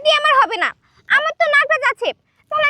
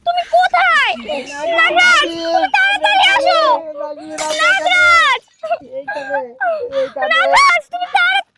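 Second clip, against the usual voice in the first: calling out; 2 semitones higher, slower than usual. Acted. Wife calling again for her snake-king.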